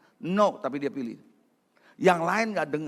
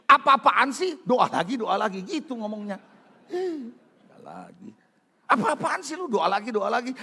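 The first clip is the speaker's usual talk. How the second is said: scornful mockery; 2 semitones higher than usual. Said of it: "arah sekarang ngomongnya nggak gitu".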